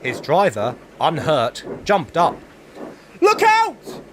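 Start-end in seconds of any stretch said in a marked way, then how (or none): 3.2-4.0 loud, high yell of warning; shouted warning. A narrator's reading. Driver warns the fireman, loud high shout. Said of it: "he shouted".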